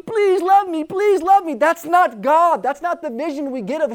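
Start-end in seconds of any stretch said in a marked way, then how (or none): 0.0-1.5 high, pleading needy voice; mock begging. Preacher mocking a needy God begging for love. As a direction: whine it like a needy beggar. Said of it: "he's in heaven just begging you".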